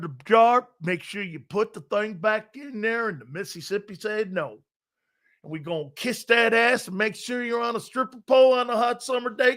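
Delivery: lightly mocked Southern team-owner voice; a hint of rambling Texan bluster; Jerry Jones. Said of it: "remember Jerry Jones?".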